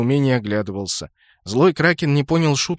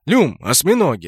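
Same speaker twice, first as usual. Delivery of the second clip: louder, annoyed call; irritated shout; 2 semitones higher, 4 dB louder than usual. Acted. Guard calling after the elf boy, irritated. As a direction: snap at the boy to get moving. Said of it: "раздражённо крикнул Жюль".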